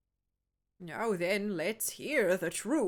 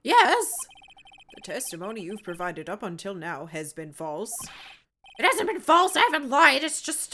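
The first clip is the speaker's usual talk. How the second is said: silly clown; 7 dB louder than usual. Acted. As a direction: whine like a nervous clown. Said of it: "When I did this clown voice".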